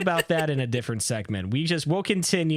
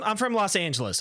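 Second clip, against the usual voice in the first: mocking Angeleno; 6 semitones higher than usual. Shown as a demonstration. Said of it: "we always used to make fun of that".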